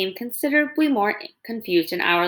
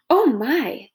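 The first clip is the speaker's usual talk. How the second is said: breathless startled whisper; gasping whisper; 4 semitones higher than usual. Acted. Possum meeting the feared robot, gasped whisper. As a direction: gasp the words out on air. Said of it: "the possum gasped".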